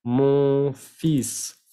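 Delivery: "Mon fils" as a deliberate "mon feess"; silent L demo. Shown as a demonstration. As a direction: drop the L in "Mon fils", keep the S. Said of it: "la L no se pronuncia".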